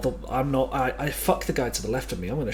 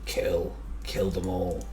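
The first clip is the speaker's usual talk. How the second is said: whispering; 6 semitones lower, 4 dB quieter, much slower than usual. Acted. Menacing whisper in game.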